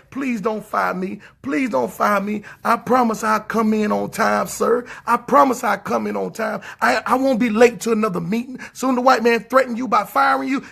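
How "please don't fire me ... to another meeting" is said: grovel like a worker about to be fired; mock begging employee. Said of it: "you'll be begging the white man".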